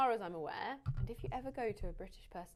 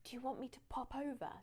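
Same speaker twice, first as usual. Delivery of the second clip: warm; 3 semitones higher, 5 dB quieter than usual. Shown as a demonstration. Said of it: "warm way of asking somebody".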